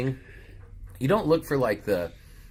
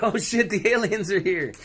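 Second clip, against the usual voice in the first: mock panic; 9 semitones higher than usual. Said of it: "And he's like".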